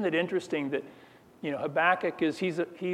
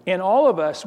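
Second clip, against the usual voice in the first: all of us pushed louder; emphatic; 3 semitones higher, 6 dB louder than usual. Acted. Preacher presses the point on the whole room, loud. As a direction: lean hard on the ALL.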